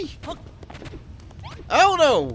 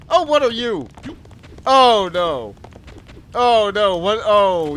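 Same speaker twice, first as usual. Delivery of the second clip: surprised; 5 semitones higher, 7 dB louder, slower than usual. Real, not acted. Startled by strange creature.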